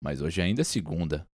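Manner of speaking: firm, quiet, final. Acted. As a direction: say it firmly, no argument. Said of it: "mas disse em tom firme".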